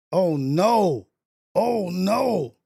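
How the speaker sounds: loud "oh no" twice; real dismay; dismayed shout. Real, not acted. Game loss again.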